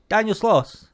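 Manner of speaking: high questioning repeat of the name; retold disbelief, pitched well up; incredulous receptionist. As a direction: imitate a clerk who can't believe it. Receptionist doubts the name given.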